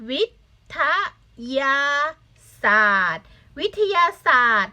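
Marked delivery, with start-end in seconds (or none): 0.1-3.3 "วิ... ทะ... ยา... ศาสตร์" with a pause after each syllable. Shown as a demonstration. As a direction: sound out "วิ ท ยา ศาสตร์" as separate syllables for learners. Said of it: "อ่านได้ไหม". (อ่านแยกทีละพยางค์ "วิ - ทะ - ยา - ศาสตร์")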